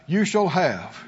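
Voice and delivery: measured line for the congregation to echo; feed them the phrase to repeat; leading group recitation. Shown as a demonstration. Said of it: "Everybody said out loud".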